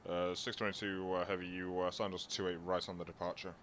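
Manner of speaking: thin, distant radio voice; air traffic control radio. Real, not acted. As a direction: speak as if over a cockpit radio. Pilot radio call to tower.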